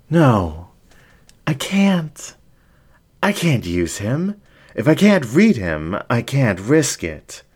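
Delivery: high, rattled and pleading; a showman losing his nerve; anxious fox. Acted. Fox refuses the dingo in a high, flustered voice.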